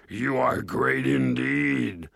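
grovel before your master; fawning dwarf lord. A narrator's reading. Dwarf flatters ogre.

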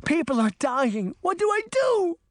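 high, loud desperate plea; frantic shout. A narrator's reading. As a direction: scream it at the mirrors. Pounding on the frame.

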